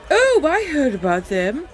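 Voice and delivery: high and loud, hammed-up elf squeal; horrible high elf voice. Narrating the recap, voicing the elf on the stone: high shrill elf. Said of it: "in a horrible high elf voice".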